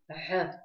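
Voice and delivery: Г breathed roughly from the throat; с трением, грубее. Shown as a demonstration. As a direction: say Г with heavy friction, like a rough h. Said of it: "с большим трением и грубее". (грубое «Г» с большим трением)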